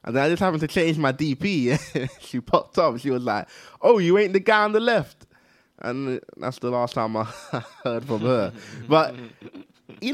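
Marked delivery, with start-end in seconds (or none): 3.8-5.3 higher-pitched imitation of a girl; mock girl's surprise. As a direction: lightly mimic her sudden realisation. Mimics girl's disappointed realisation about photo.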